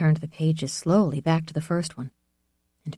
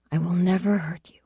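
tender whisper. Acted. Tender promise to the dog.

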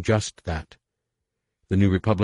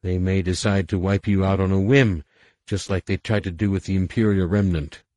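raised, urgent plea; urgent pleading; 3 semitones higher, 3 dB louder than usual. Acted. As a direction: press the point hard.

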